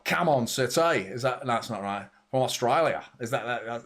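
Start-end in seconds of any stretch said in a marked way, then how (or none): 0.0-1.0 drawled, twangy Aussie fan cheer; Australian accent. Acted. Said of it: "say it in your accent as well". 2.3-3.0 mock Australian accent; hammy attempt at Australian. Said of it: "insulting to speak like that".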